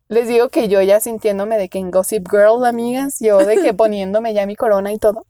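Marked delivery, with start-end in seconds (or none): none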